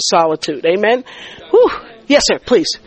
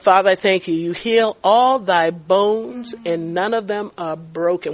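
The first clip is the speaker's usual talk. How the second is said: solemn prayer; 3 semitones lower, 5 dB quieter than usual. Retold or imitated. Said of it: "And it said".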